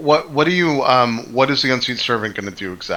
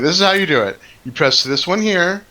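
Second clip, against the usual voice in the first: confident NPC; 6 semitones higher than usual. Acted. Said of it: "He's like".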